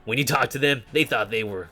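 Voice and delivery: lightly voiced taunting ghost in a dummy; a hint of a cocky ghost, mostly own voice. Ghost in the dummy taunting the player, lightly voiced. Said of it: "It's like".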